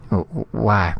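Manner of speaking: nervous stammer on the first word; stuttering. Acted. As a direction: stumble over the start, stammering. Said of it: "Magnan stuttered".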